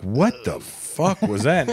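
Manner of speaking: slow, stretched-out mock disbelief; retold bewilderment. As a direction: act out waking to a stink, drawing words out. Retold waking to a terrible smell.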